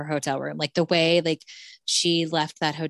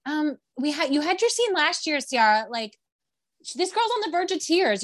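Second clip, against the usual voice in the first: much higher, incredulous scolding; exasperated retort; 9 semitones higher than usual. Retold or imitated. To Sierra about stealing the moment, exasperated high retort. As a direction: call her out, disbelieving.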